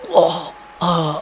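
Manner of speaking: mock groan of someone being stabbed; imitated pain groan. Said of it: "pasti ekspresi gitu dong". (erangan kesakitan tiruan)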